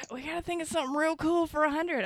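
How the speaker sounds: fast, unvoiced whisper. Real, not acted. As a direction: whisper it quickly. Whispered aside.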